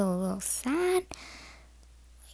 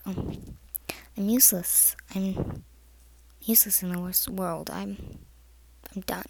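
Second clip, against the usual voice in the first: low, subdued voicing of defeat; sad; 4 semitones lower, 5 dB quieter than usual. Hurt kid doubting their own worth, mildly sad. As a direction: give a mildly dejected, trailing-off quote. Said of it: "make 'em feel really sad".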